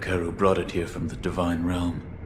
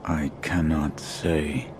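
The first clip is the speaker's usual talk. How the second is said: tag withheld; 2 semitones lower, much slower than usual. Acted. Guarded shinobi refuses again.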